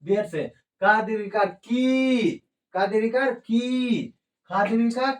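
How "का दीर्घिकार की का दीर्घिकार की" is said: lengthened vowel demo; drawn-out long vowel. Shown as a demonstration. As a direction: stretch the की slowly and long. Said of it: "देर से उच्चारण होता है".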